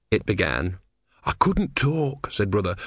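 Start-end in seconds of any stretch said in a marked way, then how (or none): 1.2-2.3 high, slow protest; flustered young disciple. Acted. Brother excuses himself to the tortoise, high and pleading. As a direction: plead your excuse in a raised voice.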